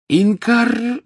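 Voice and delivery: high shouted incantation; yelled spell. A narrator's reading. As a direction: yell the spell out. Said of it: "завопил Гарри".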